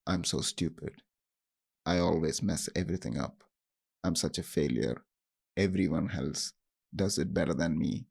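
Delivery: low, sulky self-critical mutter; harsh inner voice. Retold or imitated. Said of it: "The voice might say things like".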